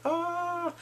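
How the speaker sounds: high, mock-romantic swoon; romantic sigh. Waking up next to Min Hyuk, romantic mock sigh. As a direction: swoon dreamily on one held note. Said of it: "all romantically".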